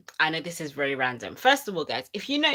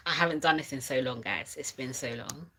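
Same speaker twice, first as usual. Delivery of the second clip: shaking. Real, not acted. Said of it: "Excuse the shaking".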